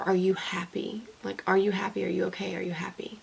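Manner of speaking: hushed whisper, retelling how she asked; whispered quote. Retold or imitated. Asking a struggling friend, retold in a soft whisper. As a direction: whisper it gently, like checking on a friend. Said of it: "And I was just like".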